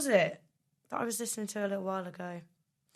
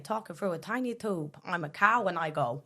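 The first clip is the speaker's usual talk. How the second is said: put-on New York accent. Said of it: "What would a New York cow sound like".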